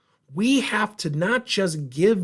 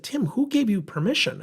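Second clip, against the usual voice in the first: retold angry question; 9 semitones higher than usual. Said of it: "and she was angry".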